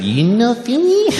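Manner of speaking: high, slow exaggerated Japanese accent; waitress in an over-the-top Japanese accent. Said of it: "She said".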